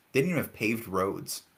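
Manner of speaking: talking while chewing candy. Real, not acted. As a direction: crunch gummies between words. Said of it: "ignore my crunchy Swedish fish".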